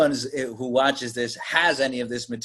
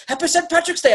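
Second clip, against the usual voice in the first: mock bartender; 13 semitones higher than usual. Bartender voiced in retelling.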